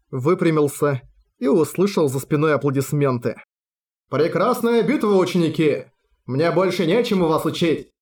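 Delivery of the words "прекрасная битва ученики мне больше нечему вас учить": affected voice. Acted. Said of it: "наигранным голосом".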